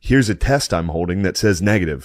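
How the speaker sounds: emphatic, worked-up case-making; retold mad argument. Passenger showing his test to airline staff, retold mad argument. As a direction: re-enact arguing your case with force. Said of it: "I was so mad".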